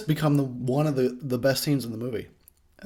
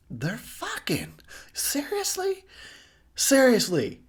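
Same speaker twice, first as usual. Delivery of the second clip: mock exasperated killer, higher pitched; a hammed-up fed-up Jason scolding; annoyed Jason; 10 semitones higher than usual. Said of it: "that's his attitude".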